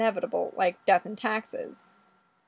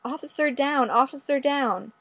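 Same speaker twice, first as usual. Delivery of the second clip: mild mock yell; 4 semitones higher than usual. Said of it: "yelling into my cell phone".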